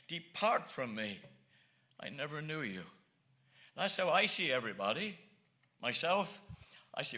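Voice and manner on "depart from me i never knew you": a lower, slower, solemn Lord turning people away; lower, slower voice of Christ. Retold or imitated. Preacher voicing the Lord's judgment on sinners, lower and slower. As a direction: draw it out low and slow as the Lord's verdict. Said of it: "he's gonna say".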